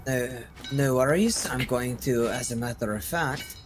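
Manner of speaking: put-on lightly feminine game-character accent; Severin Arianai. Adventurer promises light in the dark, lightly accented character voice. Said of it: "a more feminine Severin Arianai".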